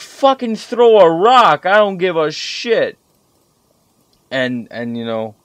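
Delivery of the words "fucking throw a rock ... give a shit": much higher and louder, slow furious outburst; exasperated yell. Retold or imitated. Gamer snapping at teammate Corby about the tank, exasperated slow yell. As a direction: blow up at your teammate, dragging it out. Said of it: "And I said".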